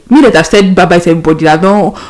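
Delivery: stranded traveller panicking on the phone to her mom; panicked outburst. Retold or imitated. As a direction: spill it out in a panic. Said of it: "I was freaking out. I was panicking".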